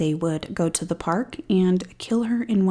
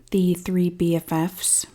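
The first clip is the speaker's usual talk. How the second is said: sarcastic. Real, not acted. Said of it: "yes, I'm being sarcastic".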